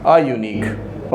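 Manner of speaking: "आ यूनिक" drawn out slowly, each sound held; slow demo. Shown as a demonstration. Teacher to students, modelling the article, slowly. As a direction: stretch "आ यूनिक" out for the class. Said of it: "तो यहाँ लग जाएगा आ यूनिक".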